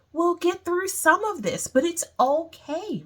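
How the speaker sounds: high-pitched, soothing comfort; reassuring. Real, not acted. Reassuring listeners who may struggle.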